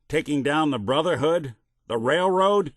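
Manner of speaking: appalled, pitch climbing; incredulous. Acted. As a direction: question it in disbelief. Disbelief at factions taken down.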